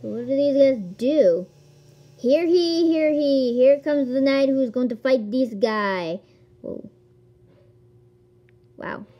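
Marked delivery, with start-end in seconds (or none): 2.2-6.2 mock town crier. Mock herald announcing a knight.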